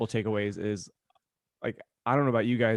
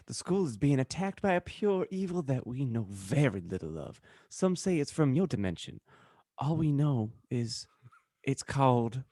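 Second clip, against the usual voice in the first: character voice; 3 dB quieter than usual. Acted. Reading the fic as a character.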